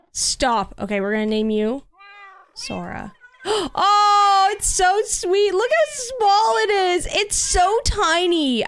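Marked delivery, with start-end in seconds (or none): 3.5-8.7 high, slow cooing over a kitten; sweet high baby-talk voice. Acted. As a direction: coo at the tiny kitten like a baby.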